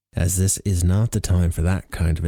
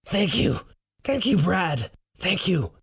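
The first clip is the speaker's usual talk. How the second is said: breathing hard; 10 semitones higher than usual. Acted. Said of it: "breathing hard".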